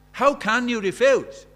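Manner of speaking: "How" hit hard and drawn out, pressing the crowd; loud pleading. Shown as a demonstration.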